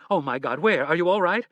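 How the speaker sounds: frantic worried wife; panicked. Acted. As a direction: cry out in fright for him.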